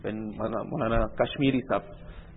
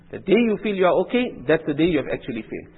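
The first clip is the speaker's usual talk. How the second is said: louder, higher warning; a sudden raised warning from the pulpit; preaching emphasis; 4 semitones higher, 5 dB louder than usual. Real, not acted. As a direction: drive the warning home with force.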